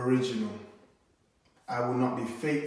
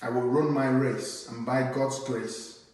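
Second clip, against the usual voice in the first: rhythmic, emphatic poem recital; spoken word poem. Acted. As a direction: perform it like a slam poem on stage.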